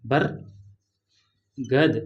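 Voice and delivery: बरगद stretched out very slowly, each sound held; very slow demo. Shown as a demonstration. Teacher modelling बरगद for students, very slow. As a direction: spell out बरगद at a crawl. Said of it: "र का उच्चारण जो है मात्र थोड़ा सा किया मैंने".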